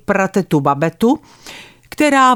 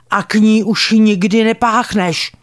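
yelling ban. Retold or imitated. Grandmother forbidding girl to visit Babeta, raised and stern. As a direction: forbid it outright, stress on "nikdy". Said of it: "začala ječet na mě".

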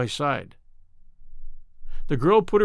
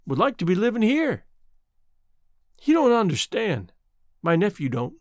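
apologetic; 6 semitones higher than usual. Acted. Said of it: "she added apologetically".

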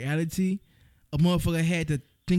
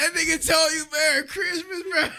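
mocking disbelief; 10 semitones higher than usual. Real, not acted. Mocking friend's ex, cracking up.

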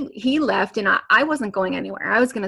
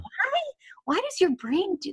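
incredulous; 11 semitones higher than usual. Real, not acted. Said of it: "that's so weird".

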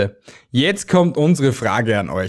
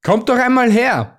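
higher, kind call to come closer; friendly invitation; 10 semitones higher than usual. Acted. Archangel invites the shy ox and donkey, friendly higher call. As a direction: coax the shy animals forward gently. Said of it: "forderte sie Erzengel Michael freundlich auf".

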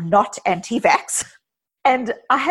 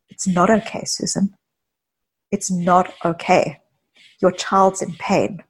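kindly, compassionate. Retold or imitated. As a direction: tell them kindly, with room between phrases. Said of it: "kindly and compassionately".

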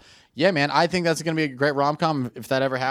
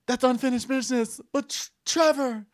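dramatic quote; 10 semitones higher than usual. Retold or imitated. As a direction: deliver it like a soap opera line. Acted quote in retold scene.

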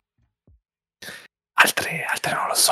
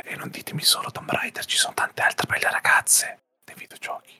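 whispering. Real, not acted. Host intro, whispered.

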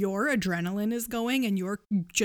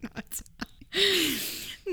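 whispering; 9 semitones higher, much slower than usual. Real, not acted. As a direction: whisper it quickly aside. Quiet aside.

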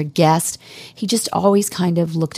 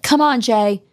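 retold coaxing; 6 semitones higher than usual. Retells coaxing friend to dance.

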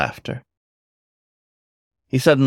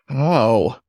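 nervous yelp; 4 semitones higher than usual. A narrator's reading. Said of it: "let out a nervous yelp".

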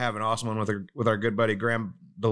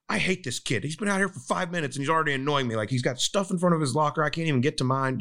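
mock complaining; 4 semitones higher than usual. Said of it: "he's complaining about it".

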